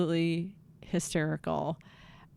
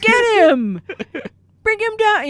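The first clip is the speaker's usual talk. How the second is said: sideline yell; 13 semitones higher, 10 dB louder than usual. Retold or imitated. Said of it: "we're yelling".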